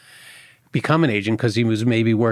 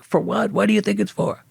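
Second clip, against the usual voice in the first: a higher, incredulous for what; mock exasperated; 10 semitones higher than usual. Coordinator snapping back at the new applicant, mock incredulous. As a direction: scoff as if the answer's obvious.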